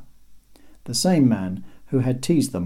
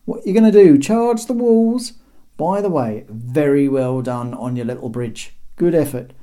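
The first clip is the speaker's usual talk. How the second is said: much higher, louder mocking banter; cheeky taunter; 7 semitones higher, 7 dB louder than usual. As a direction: taunt the invaders gleefully. Terry taunts the emperor.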